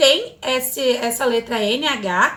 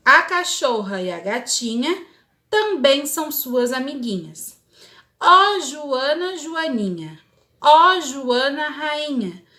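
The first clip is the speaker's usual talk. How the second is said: put-on poem read to children. Teacher reading the ladybug poem to pupils, gently. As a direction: read it like a storybook for little ones.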